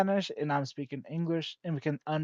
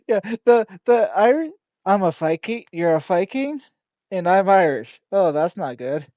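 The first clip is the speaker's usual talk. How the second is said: louder, higher, laughing through it; real giddy excitement; excited giggly talk; 4 semitones higher, 12 dB louder than usual. Real, not acted. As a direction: bubble over with amusement. Laughing excitedly about Vikings.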